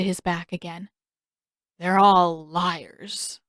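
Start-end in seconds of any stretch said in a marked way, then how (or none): 1.8-3.4 very slow, drowsy sleep-talk; delirious mumble. A narrator's reading. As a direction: drift off while saying it. Delirious Sokka flopping back down.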